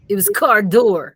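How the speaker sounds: through clenched teeth. Acted. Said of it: "He said between clenched teeth".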